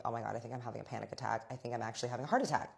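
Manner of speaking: rapid, rushed worry, little drama; retold panic. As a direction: tumble quickly through the retold panic. Retells her own panic attack.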